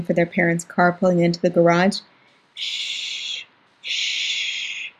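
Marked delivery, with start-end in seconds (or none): 2.5-4.9 soft whispered shushing; hushing. Acted. Sister hushing her sobbing brother, whispered shush. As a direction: whisper shh to calm him.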